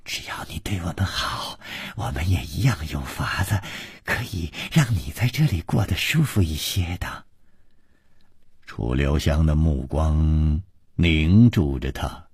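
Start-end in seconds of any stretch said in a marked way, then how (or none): 0.1-7.2 tittering. Acted. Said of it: "绛衣少女哧哧地说".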